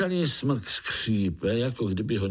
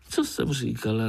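gleeful; 2 semitones higher than usual. Acted. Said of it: "radovala se rosnička".

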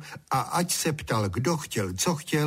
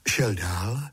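plain reading voice

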